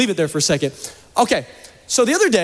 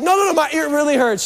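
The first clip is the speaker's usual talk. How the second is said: high, insistent complaint; mock pleading; 7 semitones higher than usual. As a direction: plead high with your wife, hamming it up. Retold pleading with his wife.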